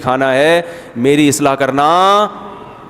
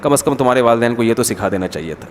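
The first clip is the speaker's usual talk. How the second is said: lower, mildly put taunt; extra-pious calm reproach; 5 semitones lower, 3 dB quieter than usual. Retold or imitated. Even more pious mother-in-law faulting the parents, calmly. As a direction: imitate a saintly mother-in-law's restrained dig. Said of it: "اور زیادہ نیک ہوگی تو کہے گی".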